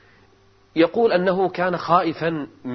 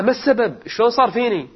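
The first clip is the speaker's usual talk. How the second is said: anguished cry; 9 semitones higher, 5 dB louder than usual. Acted. Patient cries out in despair.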